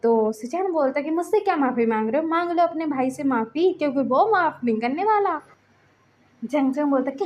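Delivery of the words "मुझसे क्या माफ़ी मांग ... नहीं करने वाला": acted reproach, a touch raised; mild indignant scolding. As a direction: scold him, mildly indignant. Acted scolding in a story quarrel.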